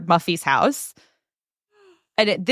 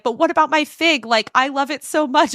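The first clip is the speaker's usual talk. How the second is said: whiny plea; 6 semitones higher than usual. Retold or imitated. Celeste whines about her fig.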